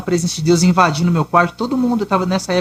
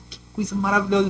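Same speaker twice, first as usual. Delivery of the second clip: awed hush; 8 dB quieter than usual. Retold or imitated. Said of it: "Eu falo assim".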